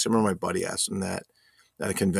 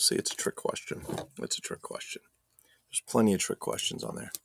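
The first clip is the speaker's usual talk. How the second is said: whispering; 6 dB quieter than usual. Real, not acted.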